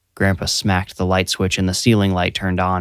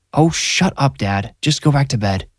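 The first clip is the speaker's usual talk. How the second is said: higher, exasperated mom; annoyed; 6 semitones higher than usual. A narrator's reading. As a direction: snap at her father. Mom snapping at grandpa.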